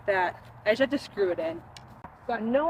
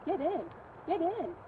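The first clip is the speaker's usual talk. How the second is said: urging the ball; 6 semitones higher, 5 dB quieter than usual. Real, not acted. Urging chip into the hole.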